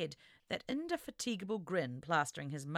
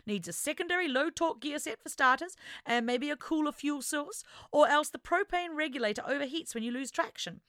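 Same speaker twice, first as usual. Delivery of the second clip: enthusiastic; 8 semitones higher, 4 dB louder than usual. Acted. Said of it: "complete with predictable enthusiasm".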